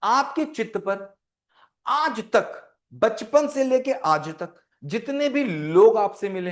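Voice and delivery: slow, phrase-by-phrase delivery; deliberately slow. Shown as a demonstration. Teacher explaining Vivekananda's saying to students, slowly. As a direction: let each phrase land with pauses. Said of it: "मैं बहुत धीरे धीरे बोलूंगा".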